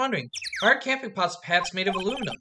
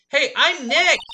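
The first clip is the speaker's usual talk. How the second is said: raised call with a laugh; calling out to the camera; 8 semitones higher, 5 dB louder, slower than usual. Acted. Nick calls his name at the noise-triggered camera. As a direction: say your name to trip the mic. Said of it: "Maybe I'm not saying it loud enough".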